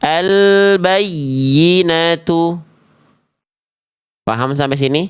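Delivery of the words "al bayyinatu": heavy, pressed, stressed doubled yy in al-bayyinatu. A speaker shows listeners how to read al-bayyinatu, stressing the doubled ya. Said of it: "ditekan di atas tasdidnya".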